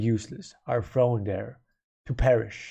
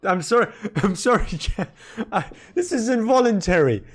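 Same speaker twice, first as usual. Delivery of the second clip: laughing; 5 semitones higher than usual. Real, not acted. Laughing at own hiccups.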